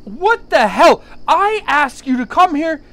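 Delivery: loud, high, hammed-up outrage at a rival pick; mock outrage. Host mock-outraged at his guest's Leafs pick, loud and high. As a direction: fake fury, dragging out the words.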